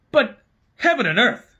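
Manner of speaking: high, aghast exclamation; young king, horrified; shocked king. A narrator's reading. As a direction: gasp it out in disbelief.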